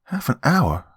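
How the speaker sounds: high, whiny disbelief; whining kid. Acted. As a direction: whine it like a sulky boy. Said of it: "Ben whined".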